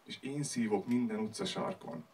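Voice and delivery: low, soft closing lines; quiet ending. Acted. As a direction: let the poem sink away into silence. Poem winds down to its end. (halkan, mélyen elhaló befejezés)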